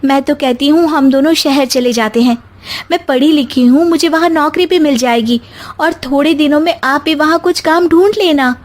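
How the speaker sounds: wife persuading husband; pleading young wife. Acted. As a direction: coax the husband toward the city. Anjali urges husband.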